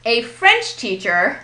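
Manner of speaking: a FRENCH teacher, slow and deliberate; stress on French. Shown as a demonstration. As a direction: punch French, keep teacher lighter. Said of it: "is a compound word".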